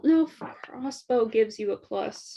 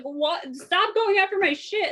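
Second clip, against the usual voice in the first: higher, indignant complaint; annoyed character; 6 semitones higher than usual. Acted. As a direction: protest in a higher voice. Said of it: "he's like".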